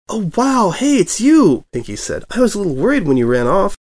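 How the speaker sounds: high, bouncy excited pony voice; bubbly Pinkie voice. A narrator's reading. Pinkie greets the returning reporter, high and bubbly. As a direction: go high and bright with glee.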